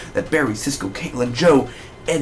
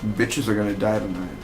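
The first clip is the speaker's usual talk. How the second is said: hushed villain thought; imagined thought; 2 semitones lower, 5 dB quieter than usual. Retold or imitated. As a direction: mutter the inner thought. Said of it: "that moment he's thinking".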